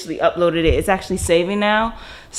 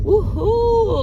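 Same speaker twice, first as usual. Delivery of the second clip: high happy cheer; excited woohoo; 13 semitones higher than usual. Retold or imitated. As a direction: whoop it up high. Cheering after "I'm like.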